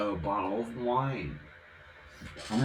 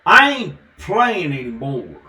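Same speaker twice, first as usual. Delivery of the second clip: loud, higher tough-guy declaration; put-on gruff voice; 6 semitones higher, 14 dB louder than usual. Continuing the odd voice for viewers, loud tough-guy voice. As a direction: bark it out in character. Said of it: "I do that voice sometimes".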